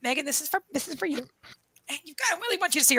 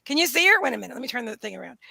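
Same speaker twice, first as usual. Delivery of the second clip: usual speaking voice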